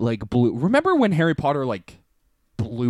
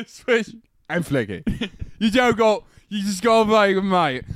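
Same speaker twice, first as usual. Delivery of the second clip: put-on British accent; mock British accent; 2 semitones higher than usual. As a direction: do a rough British lilt. Imitating British Harry Potter characters.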